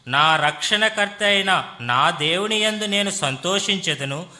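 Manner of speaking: measured, declaimed Bible reading; scripture reading. Acted. Interpreter reading Habakkuk to the congregation, formal scripture reading. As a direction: read each clause out evenly and formally.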